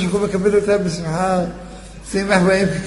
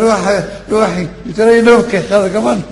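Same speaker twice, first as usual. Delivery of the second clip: higher and louder, fast; done, no more crying; firm promise; 5 semitones higher, 5 dB louder, faster than usual. Acted. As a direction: swear it off at once. Mourner answers in dream.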